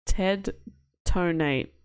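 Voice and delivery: flat monotone robot. Acted. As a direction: speak like a text-to-speech machine. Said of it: "He sounds exactly like a robot".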